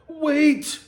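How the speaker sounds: high, loud herald's call; proclaiming shout. Acted. Herald halting the crowd, loud proclaiming call. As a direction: cry out to stop the crowd. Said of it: "he proclaimed through his heralded trumpet".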